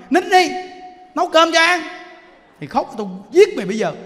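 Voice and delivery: put-on sharp, loud, high scolding of a crying child; loud irritated yelling at a crying child; angry scolding. Shown as a demonstration. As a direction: snap at the child in anger. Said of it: "mà quý vị nói".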